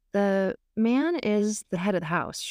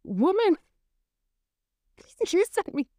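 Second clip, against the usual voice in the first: high, laughing mock outrage at the wish lists; half-laughing, half-protesting woman; husband laughing at three wish lists; 9 semitones higher than usual. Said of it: "he was like".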